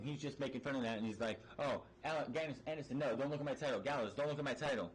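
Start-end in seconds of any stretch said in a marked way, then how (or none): 1.6-4.9 fast, light mocking voice. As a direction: rattle it off like a smug champ. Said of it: "he's just making fun of this".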